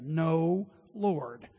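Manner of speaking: No punched out loud, Lord dropping; a sharp loud No, then Lord; loud refusal. Acted. Peter flatly refusing Jesus, No said loud. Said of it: "That's what he said".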